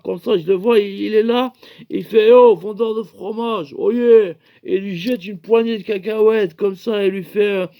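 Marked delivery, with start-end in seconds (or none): 2.3-4.3 lightly voiced medieval rogue hailing a merchant; mock old-time hail; medieval character. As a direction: call out a little higher, ending on a louder cry. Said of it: "Moyen-Âge".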